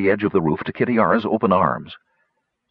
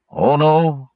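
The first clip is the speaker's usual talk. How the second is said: know-it-all gnome; 6 semitones higher, 4 dB louder than usual. Acted. Citer corrects Kitiara.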